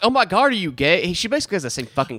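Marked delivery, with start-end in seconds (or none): 0.0-1.1 higher-pitched voice of a questioning mother; surprised mom. Retold or imitated. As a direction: lightly voice a mom asking in surprise. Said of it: "Where she's like".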